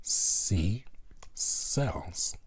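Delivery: "sells" breathed out as a whisper, the S hissed. Shown as a demonstration. Teacher isolating the S sound for students, whispering "sells". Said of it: "The sound for alliteration here is the S".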